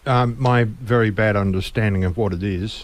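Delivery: talking through a mouthful of shrimp; mouth full. Real, not acted. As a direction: speak around a bite of food. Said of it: "hard to talk with a mouthful of shrimp".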